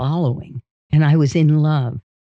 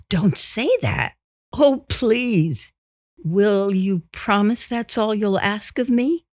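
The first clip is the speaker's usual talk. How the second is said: reluctant wife; 6 semitones higher than usual. Acted. Wife playing hard to get with her suitor, coy protest. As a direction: protest coyly, pitched well up. Wife's part in the playacting.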